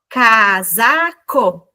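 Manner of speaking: Casaco drawn out slowly; slow result word. Shown as a demonstration. Teacher revealing the new word, slowly. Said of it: "Como é que ficou".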